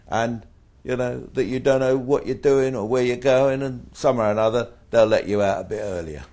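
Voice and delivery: excited retort. Retold or imitated. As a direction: push the scheme with gleeful energy. Continuing the taunting advice.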